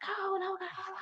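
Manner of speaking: high, soft, bashful refusal in a light imitation; mock timid protest. Host mimicking a nervous guest, mock bashful. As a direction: play a shy guest waving it off.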